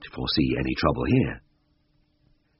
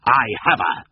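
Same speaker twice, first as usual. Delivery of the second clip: higher-pitched, triumphant announcement; happy call; 6 semitones higher, 3 dB louder than usual. A narrator's reading. Tristan tells his colleague he has the cat, calling happily. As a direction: call out your catch gladly. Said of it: "he called happily".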